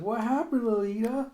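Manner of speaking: put-on high child's question rising at the end; little girl voice. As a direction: play a small girl asking sweetly. Little girl character asks.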